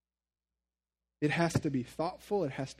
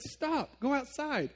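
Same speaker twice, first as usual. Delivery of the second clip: stern command; 9 semitones higher, slower than usual. Retold or imitated. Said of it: "My niece comes over and I said".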